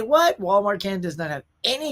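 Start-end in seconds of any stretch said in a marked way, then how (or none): 0.0-0.4 surprised. Real, not acted. Reacting to no exclusive steelbooks.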